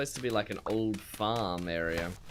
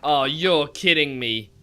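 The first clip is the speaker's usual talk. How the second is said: disbelief; 2 semitones higher, 6 dB louder than usual. Real, not acted. Storm arrives unexpectedly.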